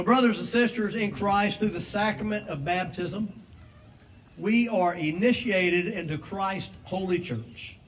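formal liturgy read aloud; liturgical reading. Acted. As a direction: read the rite with solemn weight. Reads baptismal liturgy.

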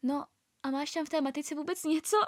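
lehce naznačený hlas skeptické mámy; imitace pochybovačné mámy. Retold or imitated. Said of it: "řekla takovým tím hlasem jako". (napodobená pochybovačná máma)

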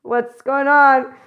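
drawn-out alarmed exclamation, slowed; startled. Retold or imitated. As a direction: gasp it out slowly, worried. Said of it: "you're like".

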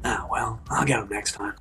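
low, soft character voice; Yueg's voice. Acted. Cleric shrugging off a missed attack, low and subdued. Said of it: "and he goes".

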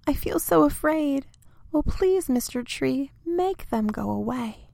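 high, begging voice rising to a plea; frightened pleading. Acted. Little tree begging big tree to stop the storm, terrified. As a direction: beg like a terrified child. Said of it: "little tree begging in fear".

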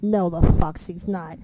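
slow, firm denial; retold disbelief. Reacting to Carmella running down the ramp, slow disbelief. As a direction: deny it slowly, disbelieving. Retelling disbelief, first take.

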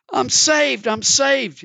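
deluded man rejoicing; excited cry. Acted. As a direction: celebrate wildly. Man pours water on head.

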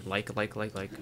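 string of repeated "like" and "um"; filler-word stammer. Shown as a demonstration. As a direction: demonstrate a speaker stuck on fillers. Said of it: "better to pause than to say".

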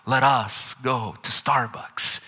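slow, stately mock-royal speech. Preacher jokes about royal plural speech, mock-regal. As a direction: proclaim it slowly like a joking monarch. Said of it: "this plural language is speaking of God's royalty".

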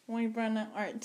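"Muy buena" in clumsy American-accented Spanish; "Muy buena" said the English-speaker way. Real, not acted. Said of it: "Sorry for my terrible Spanish".

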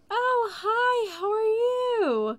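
put-on high sweet old-lady voice, drawn out; imitating old woman on phone. Old customer answering call, high sweet imitation. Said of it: "she's like".

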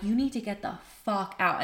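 firm order at talking volume; restrained retold order. Woman ordering her drinking ex out, restrained firmness. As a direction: tell him to leave without raising your voice.

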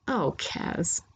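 a soft sighed response; mildly exasperated, amused sigh. A narrator's reading. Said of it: "She sighs, laughing a little".

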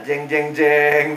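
mouthed dramatic "jeng jeng jeng", low and drawn out; suspense sting. Acted. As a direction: imitate a cliffhanger music cue. Imitates dramatic suspense music sting.

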